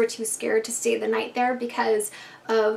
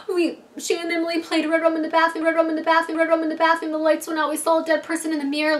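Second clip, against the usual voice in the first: put-on crying girl; 6 semitones higher, faster than usual. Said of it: "one of the girls that's crying is like".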